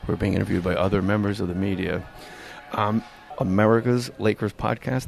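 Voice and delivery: hushed, low golf broadcaster; golf announcer voice. Acted. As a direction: murmur it like televised golf. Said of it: "I'm gonna do my golf announcer voice".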